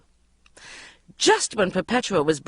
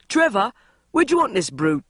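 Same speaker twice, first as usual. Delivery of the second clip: bellowing; 6 semitones higher, 4 dB louder than usual. A narrator's reading. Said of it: "then bellowed".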